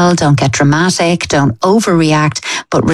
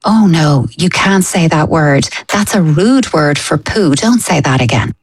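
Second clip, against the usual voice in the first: very serious. Shown as a demonstration. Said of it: "just get very serious".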